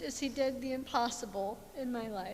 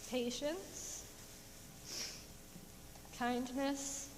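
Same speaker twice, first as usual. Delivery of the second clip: fading list; 9 dB quieter than usual. Real, not acted. Fruits of the Spirit, fading.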